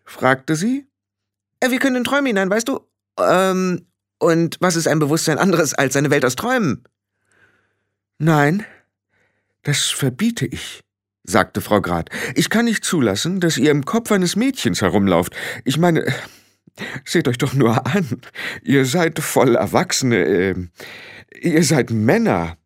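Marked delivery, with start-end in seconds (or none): 1.6-6.8 high, explaining little voice; patient little fairy man. Acted. Billy explains dream-travel to Frau Grad, patiently. 8.2-10.8 higher, halting prohibition; firm forbidding. Acted. Frau Grad forbids the men to enter heads, firm. 12.3-22.6 lightly voiced flustered woman, higher; object, faltering for the right word; disapproving Frau Grad. Frau Grad objects to men in a girl's head, flustered.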